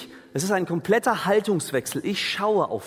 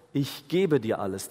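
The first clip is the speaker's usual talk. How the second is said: „gebe“ deutlich hervorgehoben; Betonung auf gebe; 3 semitones lower than usual. Shown as a demonstration. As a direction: das Verb „gebe“ klar betonen. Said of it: "Die Betonung liegt auf dem Verb geben". („gebe“ betont, der Rest ruhig)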